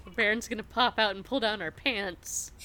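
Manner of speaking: loud excited blurt. Acted. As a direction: blurt it out, thrilled. Excited in-character outburst.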